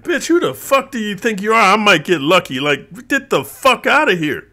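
outraged rant. Real, not acted. Ranting at a woman's demands, outraged. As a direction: spit out the disbelief at her demand.

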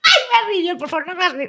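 laughing through pain. Retold or imitated. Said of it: "me acabo de acordar".

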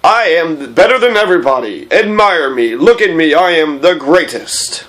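lightly voiced self-important boaster; a touch of pompous self-admiration; conceited man. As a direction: brag grandly, slowing on the last line. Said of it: "Oh yeah, the conceited man".

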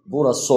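burası ending with rounded lips, wrong final ı; teacher shows students the rounded-mouth mistake. Shown as a demonstration. نطق خاطئ بشفاه مدورة. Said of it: "لفظ أيضًا خطأ على هذا الشكل".

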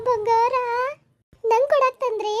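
high, eager squeal of delight; light up at the sight of gold, pitch soaring; delighted excitement. Acted. Daughter-in-law sees gold brought for her, thrilled.

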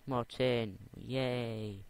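high, loud happy cry; delighted. Real, not acted. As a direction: cheer at the find. Happy find in game.

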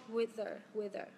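"wither" with the doubled sound said once; linked as one sound. Shown as a demonstration. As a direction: say "wither" joined, one shared consonant in the middle. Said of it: "nối âm mà hai âm giống nhau ấy thì em đọc thành một thôi".

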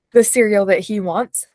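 talking through a yawn. Real, not acted. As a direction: yawn while speaking. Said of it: "sorry for my yawns".

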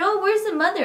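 high, loud imitation of a startled doctor; surprised doctor. Doctor walks in asking for the mother, surprised. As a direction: mimic a doctor puzzled at a missing patient.

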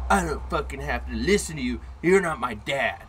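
mildly voiced brat; imitated defiant kid. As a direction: whine back like a cornered kid. Imitates kid defying him.

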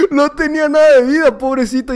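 high, loud laughing words. Real, not acted. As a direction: laugh through the line.

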